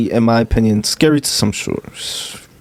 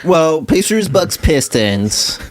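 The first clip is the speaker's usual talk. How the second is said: slow, drawn-out nerdy listing; lightly voiced nerd, slowing down; 2 semitones higher, slower than usual. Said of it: "Just fucking pulled out nerd voice".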